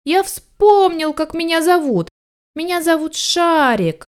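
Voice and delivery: high, drawn-out jubilant puppy; excited puppy cry. A narrator's reading. Puppy announces his remembered name, excited. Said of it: "закричал щенок".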